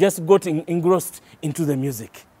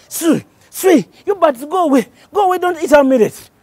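loud, higher shout to scare birds; chasing birds away; 9 semitones higher, 7 dB louder than usual. Acted. Waswa shouting at the birds to leave. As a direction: holler to shoo them. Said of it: "Waswa started chasing them away".

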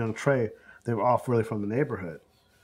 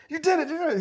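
excited praise; faster than usual. Retold or imitated. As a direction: cheer the kid on for nailing it. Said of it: "I said".

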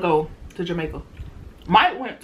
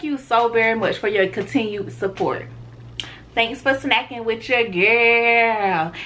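upbeat sign-off; 3 semitones higher than usual. Real, not acted. Vlog sign-off to viewers.

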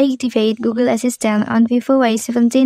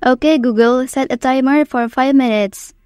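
talking to voice assistant. Shown as a demonstration. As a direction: clear command to the phone. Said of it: "say the example text".

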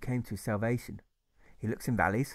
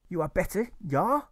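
serene, lightly German, pitched up; serene German accent; 8 semitones higher, 4 dB louder than usual. Acted. German grocer asks Alfred, serene German accent. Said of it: "in a voice which sounds serene".

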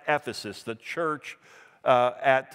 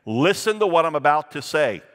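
firm, louder call for attention; emphatic; 5 dB louder than usual. Acted. Preacher paraphrasing Jesus to the congregation, emphatically. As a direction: press it home with extra volume. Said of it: "he's emphatically saying".

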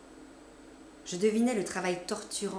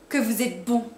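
louder, rising on bon; effusive gratitude; 3 semitones higher, 8 dB louder than usual. A narrator's reading. Cousin gushes thanks to the narrator, loud and rising. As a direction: gush with relief. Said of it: "Elle s'écria".

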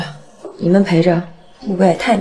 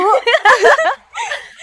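high, hearty burst of laughter; delighted laugh; 8 dB louder than usual. Acted. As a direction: laugh out fondly. Mother laughs at long food list.

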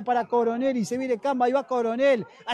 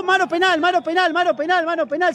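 excited call; 4 semitones higher, 3 dB louder than usual. Real, not acted. Penalty call, repeated.

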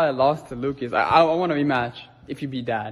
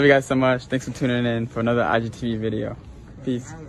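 muffled behind cloth mask; speaking with covered mouth; through a face mask; 3 semitones lower than usual. Real, not acted. Seen 4: Black cloth mask covers speaker's nose and mouth while talking.

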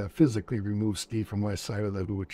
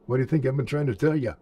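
fast, louder told-you-so; exasperated; 3 semitones higher, 5 dB louder, faster than usual. Retold or imitated. Steve told you so to his buddy, fast and exasperated. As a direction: rattle it off, fed up.

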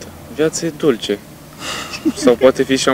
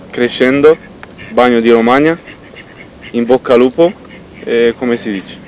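Italian intonation. Pretend. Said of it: "și tare și cu intonație".

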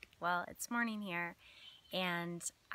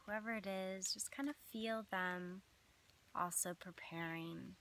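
measured meditation voice with long pauses between phrases; unhurried phrases, each left to settle; guided visualization. Acted. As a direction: lead listeners gently through an imagined scene.

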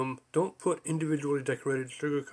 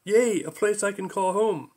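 squealing excitedly; 5 semitones higher, 4 dB louder than usual. Acted. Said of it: "squealed with excitement".

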